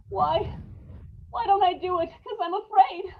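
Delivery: terrified, near tears; fearful confession. Acted. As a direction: let the fear show. Man confesses terror of dying.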